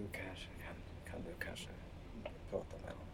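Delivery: barely voiced, very soft murmur; hushed aside. Player quietly asks the fox to talk to him, hushed. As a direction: keep it almost to a whisper.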